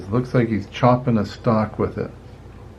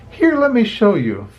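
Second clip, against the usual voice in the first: eager Flick; 9 semitones higher than usual. A narrator's reading. Flick eager to show machine.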